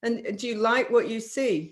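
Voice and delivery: brisk, bright sales check; fast, cheerful yes-fishing; upbeat closing questions. Shown as a demonstration. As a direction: push them toward a quick yes. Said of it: "you say".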